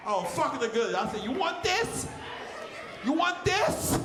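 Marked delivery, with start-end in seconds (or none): 1.2-4.0 goofy voice. Retold or imitated. Voicing himself in bed.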